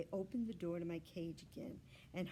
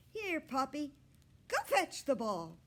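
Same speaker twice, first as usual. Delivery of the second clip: higher, louder coaxing call; coaxing squeak; 7 semitones higher, 8 dB louder than usual. A narrator's reading. Hamster coaxing the puppy to chase the ball. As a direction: coax the puppy to fetch. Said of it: "I squeaked".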